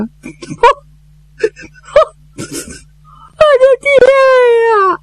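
a showy lament for dead father; wailing for father. Acted. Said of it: "他把他爸爸哭出来了".

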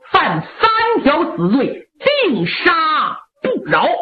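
a stern marshal, lightly voiced, firm; stern displeasure. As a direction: lay down military law to his mother, unbending. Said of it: "六郎挺不高兴".

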